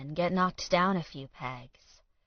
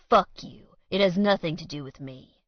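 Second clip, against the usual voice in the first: angry; 5 dB louder than usual. Acted. Colt snaps at Alan.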